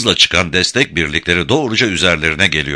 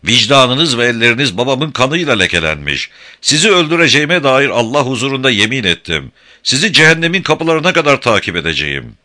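raging oath; 7 semitones higher, 4 dB louder than usual. Acted. Kadim swearing revenge.

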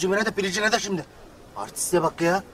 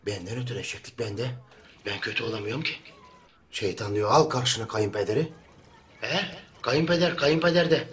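pa system; 5 semitones lower than usual. Acted. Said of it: "Kayınpederi de dinliyor".

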